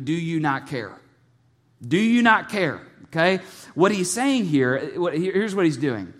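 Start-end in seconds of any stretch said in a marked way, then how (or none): 1.9-2.8 urgent repeat. Retold or imitated. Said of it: "because they asked him".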